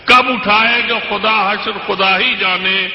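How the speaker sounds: measured, declamatory poetry recital; stately nazm recitation. Acted. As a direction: recite each couplet with weight. Recites couplet.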